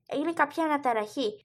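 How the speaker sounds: ordinary delivery, nothing marked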